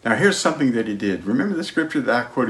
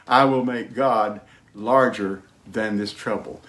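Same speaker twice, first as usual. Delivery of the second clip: slow confession. Shown as a demonstration. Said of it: "I want you to repeat after me".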